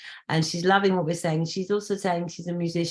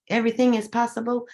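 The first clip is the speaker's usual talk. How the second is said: sings possible in a fake American accent, pʰɑsəbəl; lilting possible like an American singer; 4 semitones higher than usual. Shown as a demonstration. Singing her mantra to the host in fake American accent. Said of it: "I sing possible with my fake American accent".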